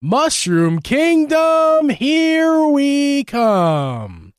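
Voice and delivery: slow, high mock Brooklyn accent. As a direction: drag it out in a hammed-up Brooklyn accent. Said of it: "if you want a Brooklyn accent".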